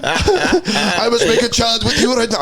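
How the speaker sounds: a terrible Arnold, drawn out slowly; Arnold Schwarzenegger impression. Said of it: "terrible Arnold Schwarzenegger impression".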